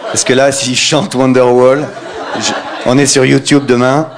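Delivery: un peu plus aigu, léger emballement; cameraman excité. Retold or imitated. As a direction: imite le type qui flaire un scoop. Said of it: "il dit". (le cameraman excité par son scoop)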